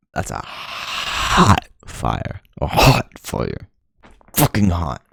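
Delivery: slow, breathy, half-whispered intensity; seething. Real, not acted. Vlogger seethes about hating life, slow half-whispered. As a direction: let it simmer out slowly through the teeth.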